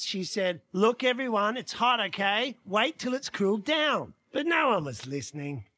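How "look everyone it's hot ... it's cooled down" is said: carefully enunciated warning; clear, mild motherly announcement; really clear voice. Acted. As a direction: say it clearly, as to a family half listening. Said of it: "in a really clear voice".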